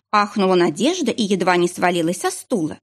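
usual speaking voice

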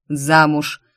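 the father's one unchanging verdict; stern single answer. Retold or imitated. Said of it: "у батюшки был один ответ".

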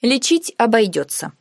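ordinary delivery, nothing marked

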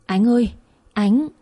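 slow, drawn-out narrated call; trying to shout. A narrator's reading. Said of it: "cố la lớn". (cố gọi to, kéo dài giọng)

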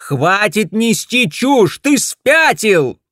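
slow, loud, high furious yell; angry yell. Acted. Wife yells that her husband is mad. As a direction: shout him down.

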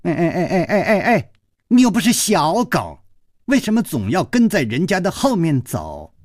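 teasing laughing scold; laughing call. A narrator's reading. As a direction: call after him with playful laughter. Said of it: "笑着说".

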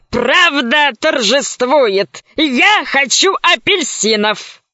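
slow gleeful gorilla voice. Acted. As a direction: gloat slowly like a beast. Gorilla rejoicing.

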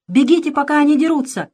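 high, loud warning cry; shouting. A narrator's reading. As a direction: urge them to flee. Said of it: "закричал он, вскакивая". (кричит во весь голос)

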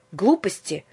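firm objection. Acted. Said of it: "решительно возразила Аннушка".

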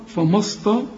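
فما استا with thick, dark vowels, cut off; wrongly heavy. Shown as a demonstration. Teacher shows the student's error, wrongly heavy. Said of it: "كلها خطأ يا راجل".

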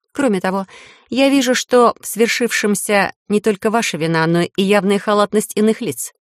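measured official verdict; formal speech. A narrator's reading. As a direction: speak like a judge. Heroine pronounces verdict.

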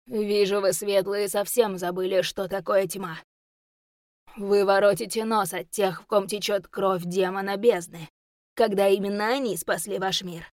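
a hint of a monstrous beast; beastly roar voice. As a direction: growl it like a demon. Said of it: "больше похожий на рёв неведомого зверя".

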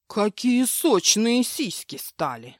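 slow, lecherous brutish voice; leering brute. Acted. Husband gropes his wife, slow lecherous voice. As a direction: savour every word like a pig.

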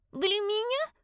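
put-on high eager child voice; small girl hoping it's for her; little girl voice. A narrator's reading. Little girl asking dad if gift is hers, high and eager.

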